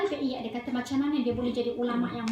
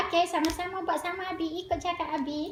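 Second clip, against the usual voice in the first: higher-pitched, lightly playful imitation; playful father; 5 semitones higher than usual. Father getting children to copy him, lightly mock-playful. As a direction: imitate a dad making a game of it. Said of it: "Macam main-main pula ada".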